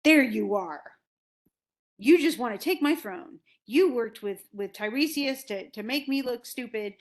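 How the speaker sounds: mock rage, loud at the start; retold raging accusation, only mildly heated; Oedipus. Oedipus accuses Creon of wanting his throne, mock raging. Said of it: "Oedipus comes in raging".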